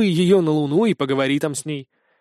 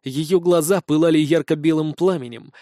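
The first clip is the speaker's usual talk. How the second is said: plain reading voice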